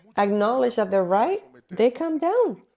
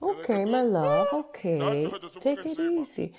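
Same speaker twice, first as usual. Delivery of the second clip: lilting, lightly acted soothing of a husband; wise, soothing wife. Preacher voicing a wise woman to her husband, soothing. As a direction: placate him, gently humouring. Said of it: "if the woman is wise".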